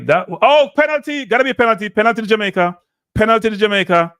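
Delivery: fan losing it as the foul is given; real excited shout. Real, not acted. Penalty won in the box.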